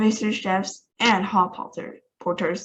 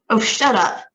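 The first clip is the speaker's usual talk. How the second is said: dismissive; 3 semitones higher, 6 dB louder than usual. Acted. President dismisses Shore.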